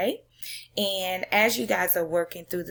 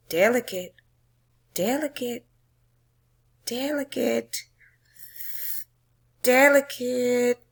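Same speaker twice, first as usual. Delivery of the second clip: each delicate more tense than the one before; building suspense; 5 semitones higher, 4 dB louder than usual. Acted. Teacher reading the poem's climax, building tension.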